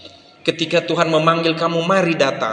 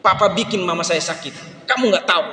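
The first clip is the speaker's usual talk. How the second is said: put-on hurt angry child; 4 semitones higher than usual. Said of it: "dia bilang".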